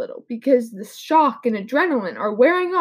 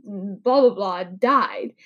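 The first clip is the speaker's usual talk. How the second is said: bored flat delivery; 4 semitones lower, much slower than usual. Shown as a demonstration. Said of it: "as opposed to if you just said".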